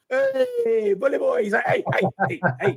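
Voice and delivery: hammed-up high hails; excited greeting. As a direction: greet a mate across the room, thrilled. Retold greeting with actor friend.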